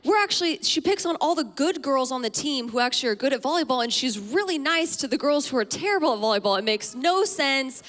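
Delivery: put-on whiny teen girls. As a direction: complain like an upset teenage girl to her dad. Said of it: "We're like".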